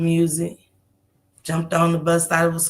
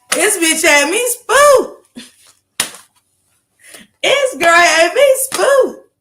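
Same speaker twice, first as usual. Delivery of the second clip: much higher, louder, stretched slow; slow, high, loud spooked wail; drawn-out spooked; 10 semitones higher, 5 dB louder, much slower than usual. Real, not acted. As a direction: wail it out long like she still can't believe it.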